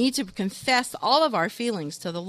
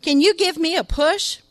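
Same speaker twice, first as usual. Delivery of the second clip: put-on drunk voice; 8 semitones higher, 7 dB louder than usual. Drunk stranger asks for help.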